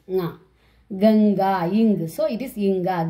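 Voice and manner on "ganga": Ganga with a velar ng before the g; teacher's model Ganga, ng clearly sounded; dot as nga. Shown as a demonstration. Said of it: "that line's last letter pronunciation".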